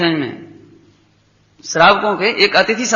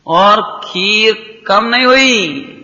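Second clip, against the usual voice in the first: slow emphasis; much slower than usual. Real, not acted.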